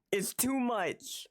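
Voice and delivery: breathless whispered it's too much. Real, not acted. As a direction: whisper it, overwhelmed. Overwhelmed repeating it's too much.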